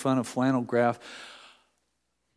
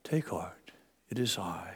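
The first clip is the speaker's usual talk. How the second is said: soft, much quieter and lower, soothing; calm gentle voice; 4 semitones lower, 9 dB quieter than usual. Shown as a demonstration. Preacher showing the calm version Jesus didn't use. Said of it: "I don't think this would have been a calm".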